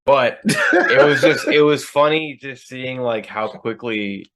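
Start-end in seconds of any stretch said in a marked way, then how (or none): 0.0-1.5 laughing through the words, slow; real laughter breaking in. Real, not acted. Laughing at the memory.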